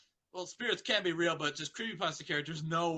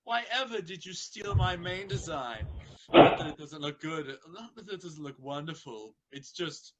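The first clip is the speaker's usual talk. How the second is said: Rarity; 4 dB louder than usual. Acted.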